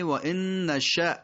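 نشأ cut short on a glottal stop; و ان نشأ with the last hamza sharply stopped; final still hamza. Shown as a demonstration. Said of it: "نشا نیست، دقت بفرمایید". (و ان نشأ با همزهٔ ساکن در آخر)

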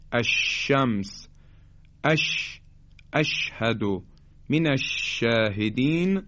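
drawn-out sh in "الشمس، اش، الشاهدین"; shin articulation. Shown as a demonstration. Teacher gives examples of the letter shin, held sh. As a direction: hold the sh of "اش" with tongue near the palate.

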